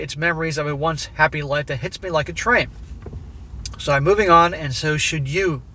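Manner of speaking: steady read-aloud voice for a written letter. A narrator's reading. Narrator reading the letter to his wife, measured and even.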